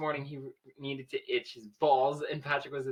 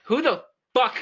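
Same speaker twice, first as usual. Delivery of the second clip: shocked outburst; 12 semitones higher, 11 dB louder than usual. Real, not acted. Friends laughing at silly story.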